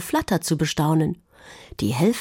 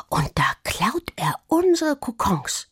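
indignant exclaiming; 7 semitones higher than usual. A narrator's reading. Juli works out the brother stole the cocoons, exclaiming. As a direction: cry it out in mild outrage. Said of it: "rief Juli".

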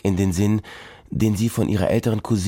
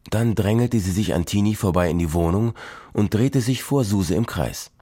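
usual speaking voice

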